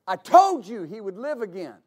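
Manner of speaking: exasperated reminder, firm on "told"; mildly fed up, as if repeating himself; frustrated. Acted. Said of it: "out of frustration".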